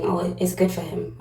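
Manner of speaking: a light Caribbean lilt on the quote; Caribbean accent. Retold or imitated. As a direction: voice the speaker with a soft Caribbean accent. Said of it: "I picked up someone with a Caribbean accent".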